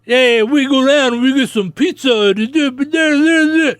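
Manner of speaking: hammed-up Chicago ad guy; fake Chicago accent. Mocking a commercial's fake Chicago accent. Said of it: "someone doing a fake Chicago".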